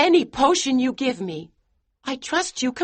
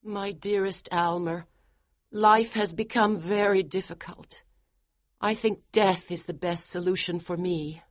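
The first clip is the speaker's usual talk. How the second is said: higher, softer, sad; resigned wife; 7 semitones higher, 3 dB quieter than usual. Acted. Wife telling husband death is best, soft high sadness. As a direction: speak of death softly. Georgiana despairing.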